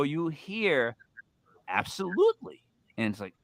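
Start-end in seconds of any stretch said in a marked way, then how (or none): 1.7-2.6 a hint of a fifties announcer; Adrian as announcer. Host retells the spirit box answer, imitating a fifties announcer. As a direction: lightly put on an old-time announcer's lilt. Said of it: "when he said it like an announcer".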